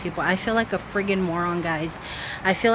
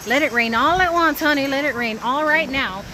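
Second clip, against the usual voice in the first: calling out; 5 semitones higher, 3 dB louder than usual. Real, not acted. Calling to the sky.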